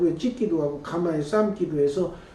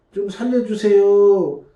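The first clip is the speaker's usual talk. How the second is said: slow, louder desperate plea; Moses begging; 3 semitones higher, 6 dB louder, slower than usual. Retold or imitated. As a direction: beg God for rescue, drawn out. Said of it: "제가 지도자 입장에서".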